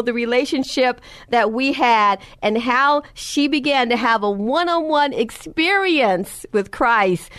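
stretched, fervent preaching with drawn-out words; rising sermon. Acted. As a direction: preach it, leaning into each phrase.

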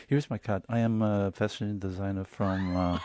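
put-on light Italian accent, a little slow; lightly voiced Italian designer introducing himself. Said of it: "am I allowed to do an Italian accent?".

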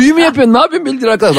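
laughing. Retold or imitated. Mock panic at spell, laughing.

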